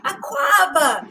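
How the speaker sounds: loud, high, slow cry of welcome; joyful welcome. A narrator's reading. Uncle welcoming Nana to the chop bar, loud joyful shout. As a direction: sing out the greeting warmly. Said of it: "he exclaimed".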